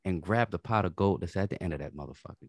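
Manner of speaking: rousing opening, then settling into measured exhortation; preacher-like pep talk. Real, not acted. Co-host encouraging listeners to chase the rainbow, pastor-like. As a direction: urge them on like a pastor. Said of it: "Go ahead, Pastor".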